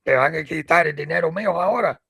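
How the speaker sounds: Spanish, a touch indignant. Retold or imitated. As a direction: retell his words in fast Spanish. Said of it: "I'll tell you how he said it".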